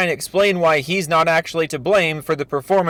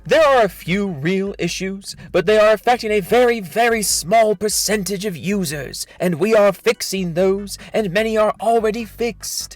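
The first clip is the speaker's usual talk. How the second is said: higher, mock-earnest reading; hammed-up corporate reassurance; dramatic reading; 3 semitones higher than usual. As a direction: lean into the very, very like a smug executive. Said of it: "This is a dramatic reading of his thread".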